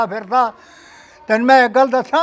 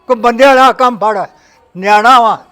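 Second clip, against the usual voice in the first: scolding; 7 dB louder than usual. Acted. Father scolds son-in-law.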